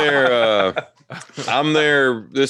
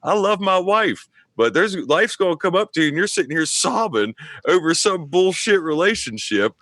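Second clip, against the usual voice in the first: lecturing; 6 semitones higher than usual. Retold or imitated. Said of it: "I was like".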